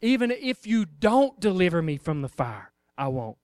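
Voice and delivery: low, soft, steady refusal; firm but hushed to the king; quiet defiance. Pretend. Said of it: "They said".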